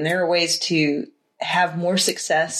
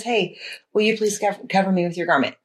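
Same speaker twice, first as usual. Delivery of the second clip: matter-of-fact direct request, lightly acted; boldly to the point; faster than usual. Ruth asking her master for cover, understated direct request. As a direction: ask simply, no apology. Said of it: "she boldly gets to the point".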